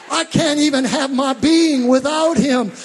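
loud, slow, stressing every is; fiery preacher shouting praise; full-force preaching. Acted. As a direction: proclaim each title like a shout.

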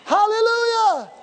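high, drawn-out hallelujah; exultant hallelujah. Acted. Preacher to the congregation, high exultant hallelujah. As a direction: lift it up in praise, slow.

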